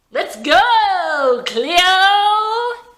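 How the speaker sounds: loud, high, drawn-out yell; taunting shout. A narrator's reading. Howie daring Cleo to fight him, loud taunting shout. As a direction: goad her into the fight.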